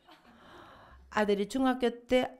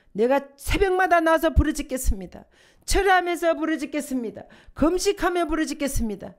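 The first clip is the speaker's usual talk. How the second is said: louder, higher, building pleading cry; fervent prayer; 6 semitones higher, 4 dB louder than usual. Acted. Mother praying for her son, fervent and rising. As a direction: pour it out like crying to God. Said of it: "주님".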